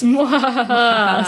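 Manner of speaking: slow, drawn-out evil laugh; villain cackle. Pretend. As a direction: cackle like a scheming panto villain.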